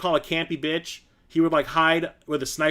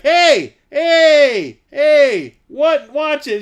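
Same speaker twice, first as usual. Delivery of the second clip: loud, high shouted warning; mock-stern shouts over a game; mock scolding shout; 11 semitones higher, 12 dB louder, much slower than usual. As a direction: yell at her teasingly to watch her mouth. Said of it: "And I would, like".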